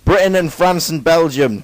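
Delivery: slow, put-on British accent. Shown as a demonstration. Student naming the Allies for the class, in a British accent. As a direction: play up a British accent, unhurried. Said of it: "That was a British accent".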